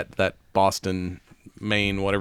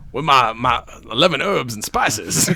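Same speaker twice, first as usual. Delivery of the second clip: louder mock Southern cartoon rooster; Foghorn Leghorn; 5 dB louder than usual. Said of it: "Fucking foghorn leghorn".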